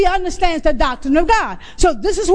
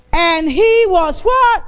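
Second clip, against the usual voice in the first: louder call for response; slower than usual. Shown as a demonstration. Preacher demanding the church answer louder. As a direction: push harder so the whole room answers. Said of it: "I only heard one person".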